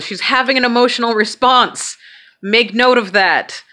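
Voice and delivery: imitating a doctor announcing to staff; high, projected clinical announcement; calling out. Neurologist calling out observation to staff.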